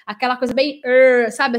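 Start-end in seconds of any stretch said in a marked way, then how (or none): 0.8-1.3 ER with the tongue curled back. Shown as a demonstration. Teacher illustrates the English R, curled R. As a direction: retroflex R held in ER. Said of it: "assim, enroladinha".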